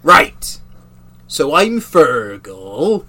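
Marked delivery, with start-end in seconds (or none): 1.3-3.1 Fergal voice again. Acted. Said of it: "Give me a moment".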